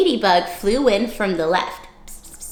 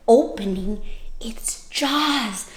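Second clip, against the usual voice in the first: whispered narration; 5 dB quieter, slower than usual. Acted. Storyteller hushes for effect.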